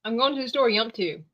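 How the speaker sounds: "yump to" run together; redneck slur repeated. Retold or imitated. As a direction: slur "yump to" like a Southern local. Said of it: "you just said".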